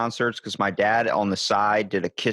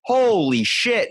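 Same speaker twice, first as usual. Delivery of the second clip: high and slow, stretched-out amazement; starstruck awe; 10 semitones higher, 4 dB louder, much slower than usual. Retold or imitated. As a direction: let the disbelief hang. Starstruck teen reaction retold.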